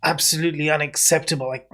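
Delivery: indignant, outraged scolding; a huffy, affronted town official; angry official. Acted. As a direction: scold them like an offended official. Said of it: "his face kind of contorts, very angry".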